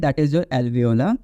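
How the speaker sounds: each word laid out slowly for students; slow teacher emphasis. Shown as a demonstration. Teacher naming the alveolar ridge, slow and deliberate. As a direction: spell the term out slowly to the class. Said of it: "slow teaching emphasis".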